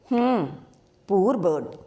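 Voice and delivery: mocking "హ్మ్, poor bird" with a scornful huff; sarcastically. A narrator's reading. Jyothi mocking Sabari's pity for the bird, lightly sarcastic. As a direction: lightly sneer the echo back. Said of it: "అన్నది జ్యోతి వ్యంగ్యంగా".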